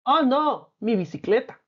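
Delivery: mock dismay over "mi bicicleta", sinking at the end; dismayed exclamation. Shown as a demonstration. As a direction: act out losing your bike for the class. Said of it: "¿Te fijas cómo hemos usado los signos?".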